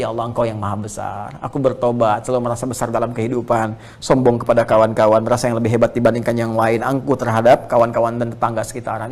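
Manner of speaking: hushed, humble prayer to God; a lightly voiced repentant plea; devout prayer. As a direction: pray it as a contrite confession.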